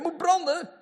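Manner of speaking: high, loud mock yell; mock shout at a lamp. Preacher mock-shouting an order at a lamp. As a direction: bark the order at the lamp like a fool. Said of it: "dat ik tegen die lamp ga schreeuwen".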